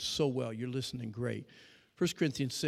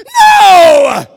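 shout; 29 dB louder than usual. Pretend.

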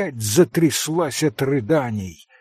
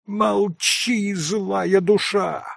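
higher, slow angry cry; furious cry; 7 semitones higher, much slower than usual. A narrator's reading. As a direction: snap back in fury. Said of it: "яростно крикнула ему Грушенька".

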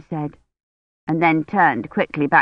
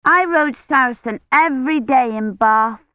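lightly voiced young girl, higher; a child boasting about her horse, higher pitched; little girl voice; 7 semitones higher, 3 dB louder than usual. Young Agnes tells Rosamond about riding in Bath, a lightly voiced girl.

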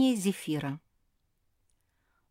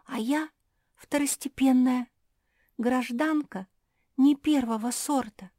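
high, plaintive voice in short halting phrases; distressed, self-deprecating girl; 7 semitones higher, 5 dB louder than usual. Acted. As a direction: lightly voice an anxious, humble character. Narrator voices distressed Louisa.

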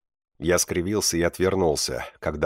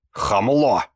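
loud, higher, shrill-voiced indignant cry; indignant teacher; 5 semitones higher, 5 dB louder than usual. Teacher yells the insult at the rude pupil, loud and high. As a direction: fling the insult as the outraged teacher.

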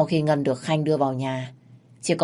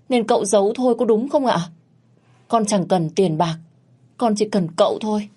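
higher, faster reproach turning to desperate begging; reproachful pleading; 4 semitones higher than usual. Acted. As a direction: blame him, then cling to him. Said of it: "lên tiếng trách móc".

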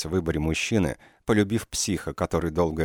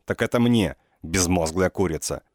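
angry yell. Acted. Injured man yells at Sasha.

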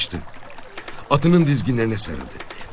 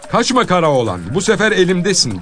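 calling out; 5 semitones higher, 3 dB louder than usual. Acted. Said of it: "dediğini duydu".

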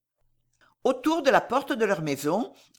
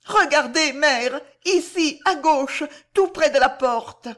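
urgent pointing out; 6 semitones higher, 4 dB louder than usual. A narrator's reading. Daughter urgently points him out.

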